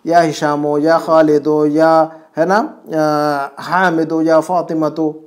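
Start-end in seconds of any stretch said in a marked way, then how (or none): 0.1-1.7 "हिशामो" and "खालिदो" ending on open u/o; single damma endings. Shown as a demonstration. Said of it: "एक ही दम्मा आएगा". 3.6-5.2 "हामिदो" and "फातिमतो" ending on open u/o; no n closing "हामिदो" or "फातिमतो"; single damma endings. Shown as a demonstration. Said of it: "एक ही दम्मा आएगा".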